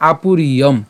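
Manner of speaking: "আপুরিয়ম" with the final ম fully closed; pronunciation demo. Shown as a demonstration. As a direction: say "আপুরিয়ম" with a clear halant ম. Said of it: "এর উচ্চারণটা কেমন হচ্ছে". ("আপুরিয়ম" হসন্ত ম সহ স্পষ্ট উচ্চারণ)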